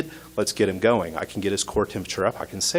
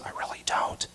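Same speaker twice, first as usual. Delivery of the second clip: feeble whisper; 10 dB quieter than usual. Retold or imitated. Friend's feeble reply.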